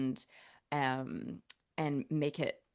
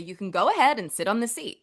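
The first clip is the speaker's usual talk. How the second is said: a little louder, polite and cushioning; softened American instruction; 3 semitones higher, 5 dB louder than usual. Shown as a demonstration. Australian actor mimicking how Americans soften an instruction. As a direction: ease them into it like a friendly server. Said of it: "They'll say".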